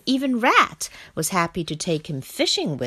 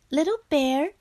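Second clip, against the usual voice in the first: higher, lightly voiced Frog; concerned Frog; 7 semitones higher than usual. A narrator's reading. Frog checks on silent Bear, concerned.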